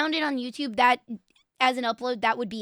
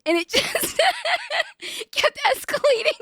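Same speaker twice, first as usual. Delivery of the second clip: laughing; 12 semitones higher than usual. Real, not acted. Streamer laughing at the clip.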